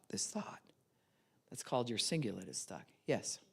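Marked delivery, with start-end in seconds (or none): 0.1-0.6 fading whispered "this thought"; whispered repetition. Shown as a demonstration. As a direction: let the repeated "this thought" sink to a whisper. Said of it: "stuck on the inside on this thought".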